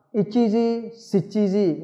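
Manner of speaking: Ichiji and shichiji said slowly and apart; careful drill. Shown as a demonstration. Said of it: "ta đọc là shichiji".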